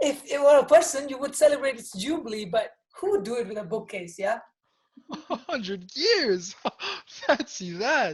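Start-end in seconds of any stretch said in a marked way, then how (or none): 5.3-8.1 astonished, amazed, surprised outburst. Acting a scene from a stage play, a character speaks, surprised.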